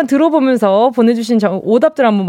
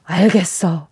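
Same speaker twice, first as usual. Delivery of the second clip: gasped realisation; 3 semitones lower than usual. Retold or imitated. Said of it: "이랬는데".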